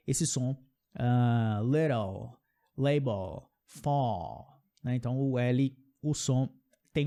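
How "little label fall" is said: little, label, fall with the tongue up for a real L at the end; clear final L. Shown as a demonstration. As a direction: finish each word on a true L. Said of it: "você vai perceber o som do L".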